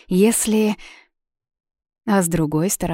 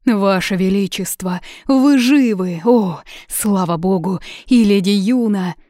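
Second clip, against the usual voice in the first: overjoyed relief; 3 semitones higher, 6 dB louder than usual. Acted. Secretary overjoyed king is alive.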